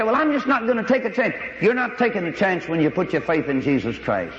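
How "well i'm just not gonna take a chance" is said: mock timid excuse. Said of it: "they'd say".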